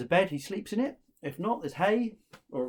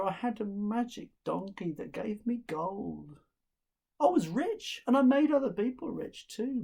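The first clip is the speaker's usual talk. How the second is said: put-on dejected older brother; 6 semitones higher, 4 dB louder than usual.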